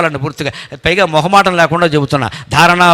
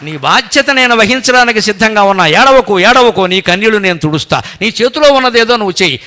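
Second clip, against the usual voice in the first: louder, raised comforting voice of Krishna; Krishna comforting Arjuna, louder and higher; Krishna reassuring; 5 semitones higher, 5 dB louder than usual. Acted. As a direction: promise protection with force.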